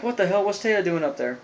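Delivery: mildly startled, acted-out disbelief; retold freak-out. Joey spotting his friend up on a plank, mock freaking out. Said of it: "Joey's, like, freaking out".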